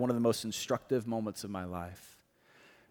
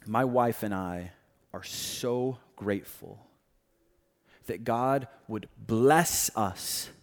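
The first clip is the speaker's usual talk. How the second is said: a light hint of a thick Korean accent, slow and tender. Seminary professor telling his class the sad news, in a mild Korean accent. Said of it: "in a thick Korean accent".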